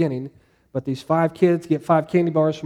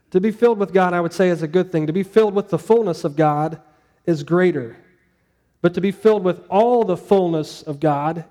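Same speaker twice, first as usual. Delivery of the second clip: "filled" stressed each time, climbing to "all"; building emphasis. Shown as a demonstration. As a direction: build the three steps. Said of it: "builds good, greater, all".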